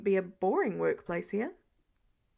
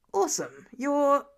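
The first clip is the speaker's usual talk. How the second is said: a louder, excited burst on the last word; exclaiming; 2 semitones higher, 5 dB louder than usual. A narrator's reading. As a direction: cheer it out, lifting on you're. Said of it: "Foggy exclaimed".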